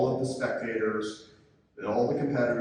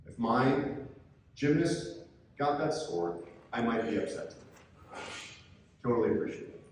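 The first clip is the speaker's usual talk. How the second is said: calm disarming tone. Shown as a demonstration. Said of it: "in a nice, calm tone of voice".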